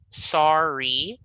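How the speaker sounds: SORRY split into two drawn syllables. Shown as a demonstration. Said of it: "there are two syllables here".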